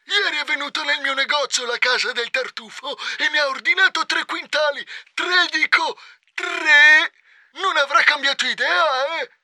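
irritated. Acted. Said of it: "replicò irritato".

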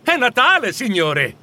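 surprised. Acted. Surprised boy tells Scrooge the date.

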